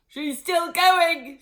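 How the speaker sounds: high, loud, slow delighted shout; gleeful shout. Acted. Mister Cranky shouting gleefully about the shrinking grandma. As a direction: crow it with glee. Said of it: "shouted Mister Cranky gleefully".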